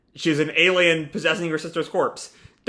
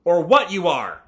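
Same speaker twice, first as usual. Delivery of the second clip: mild mock yell, a little raised; retold yell; 2 semitones higher, 4 dB louder than usual. Sumika answering her sister's apology, mildly yelling back. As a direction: yell back, only half acted. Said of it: "Sumika just yells back".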